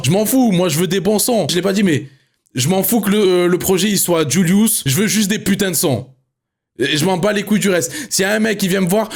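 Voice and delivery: high, fired-up rant at the chat; worked-up streamer telling chat he doesn't care. Real, not acted. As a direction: vent hard at the viewers, pitch up. Ranting at chat about transitions.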